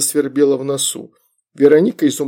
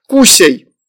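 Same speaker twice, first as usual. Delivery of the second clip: put-on high, loud baby-talk command; toddler; 5 semitones higher, 7 dB louder than usual. A narrator's reading. Toddler feeds toad to demon, loud childish command. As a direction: order it in a toddler's voice.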